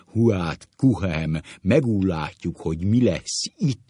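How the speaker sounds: loud, booming schoolmaster impression; hammed-up resonant teacher voice; deep, quivering teacher. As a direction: boom it with swollen, wobbly vowels. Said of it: "mély rezgő hangon".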